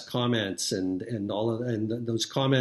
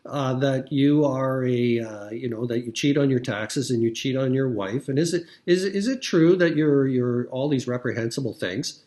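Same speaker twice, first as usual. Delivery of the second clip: mock Tucker Carlson; 3 semitones higher, 4 dB louder than usual. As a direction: play the sly innocent just asking. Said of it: "he could".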